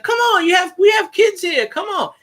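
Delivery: shouting at him from the crowd; indignant woman shouting. Retold or imitated. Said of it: "she's like".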